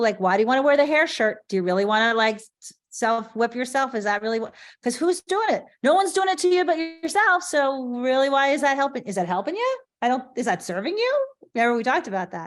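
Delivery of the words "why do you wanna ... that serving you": higher, pointed questions pressing the listener; challenging the listener. Retold or imitated. Coach asking people why they punish themselves, higher and pointed. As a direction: push people to see they are doing it to themselves. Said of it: "I always say to people".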